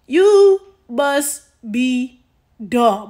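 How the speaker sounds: "you must be" stretched very slowly, then "dumb" landed hard; slow, loud build to "dumb"; stress on dumb. Real, not acted. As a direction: drag out "you must be" before hitting "dumb". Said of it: "But, bitch".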